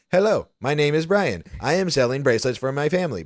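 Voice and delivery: a hint of a little vendor's rote pitch; imitating memorized pitch. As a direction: recite it like a kid's learned-by-heart spiel. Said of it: "he just has this thing memorized".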